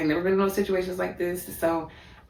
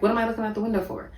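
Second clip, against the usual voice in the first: incredulous question; 7 semitones higher, much faster than usual. Retold or imitated. Confused reply to boyfriend's order.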